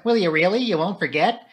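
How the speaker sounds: high, hopeful questions; eager cry. A narrator's reading. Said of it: "cried Flora".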